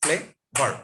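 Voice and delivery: ক্লেভার split in two, ক্লে, pause, ভার; teacher separating the two syllables of ক্লেভার; broken into syllables. Shown as a demonstration. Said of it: "syllable কিভাবে ভাঙবেন".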